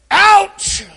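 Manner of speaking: short high clipped ouch; boy's tough ouch. Retold or imitated. Boy hit by a ball, shrugging it off with a high ouch. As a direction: play it off like it barely hurts. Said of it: "rubs it and goes".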